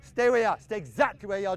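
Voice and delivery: sharp loud command to stop everyone; shouted stop to the whole squad; freezing the drill. Real, not acted. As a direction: halt the players where they stand.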